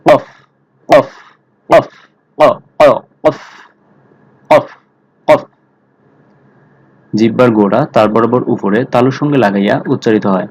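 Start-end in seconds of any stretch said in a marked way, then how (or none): 0.1-5.4 কফ said heavy from the back of the tongue; thick qaf. Shown as a demonstration. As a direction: say কফ full and thick, tongue root to palate. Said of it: "একটু মোটা করে উচ্চারণ হবে". (জিহ্বার গোড়া থেকে মোটা করে কফ)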